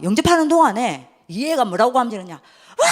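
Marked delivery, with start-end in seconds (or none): 2.3-2.9 high, loud cry of alarm; imitated outcry. Possessed daughter senses Jesus coming, high imitated outcry. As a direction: burst out with a high mock shriek.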